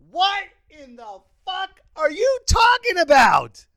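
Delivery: high, drawn-out shout of disbelief; stretched, high-pitched indignant yell; incredulous outburst. Acted. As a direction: explode in slow, outraged disbelief. Outburst at the rule.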